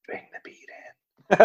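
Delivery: slow, breathy stage whisper; whispering back. Acted. A singer answering the ghost, slow whisper. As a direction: whisper it slowly like a ghostly singer. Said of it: "She whispers back".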